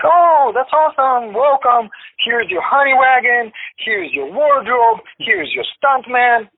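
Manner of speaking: high-pitched imitation of an eager crew; effusive welcome. Crew welcomes him on set.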